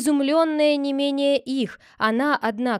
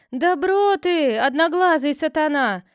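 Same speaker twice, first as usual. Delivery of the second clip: furious cry; 6 semitones higher, 6 dB louder than usual. Acted. Sister-in-law rounds on the head, furious. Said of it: "вскричала она".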